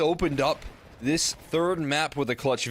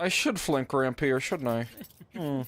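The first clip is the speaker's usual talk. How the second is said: lightly voiced scheming villain; evil villain voice; 2 semitones higher than usual. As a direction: muse over the plan like a hint of a plotting baddie. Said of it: "Why does Chop sound like that?".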